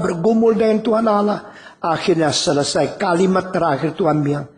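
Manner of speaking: normal talking voice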